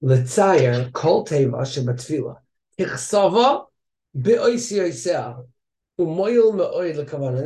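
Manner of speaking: slow, careful reading of each word. Shown as a demonstration. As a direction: read it slowly as if picturing each letter. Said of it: "picture the spelling of the word".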